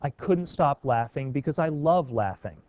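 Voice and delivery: slow, deliberate reading with "laughing" stressed both times; emphasis on laughing. Shown as a demonstration. Teacher showing a student repetition for emphasis, deliberately stressing "laughing". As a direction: lean on the repeated "laughing" so it is heard as intentional. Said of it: "let me speak the sentence again".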